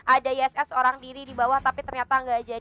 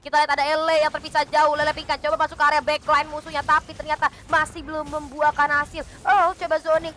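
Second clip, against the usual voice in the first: excited play-by-play. Real, not acted. Fight breaks out, fast calls.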